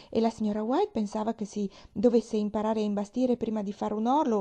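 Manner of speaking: a hint of a chatty young girl; eager little girl. Pollyanna answers her aunt, eager and a little flustered.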